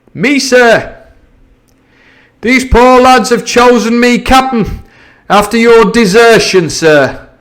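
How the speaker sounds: a pirate with mock politeness; Long John Silver. Silver answering the captain, sly pirate voice. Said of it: "laying a particular emphasis upon the word".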